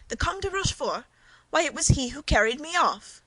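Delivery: high, loud cry of disbelief; shocked outcry. Acted. Wife hearing her abductor's name, in shocked outcry. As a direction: gasp it out, appalled.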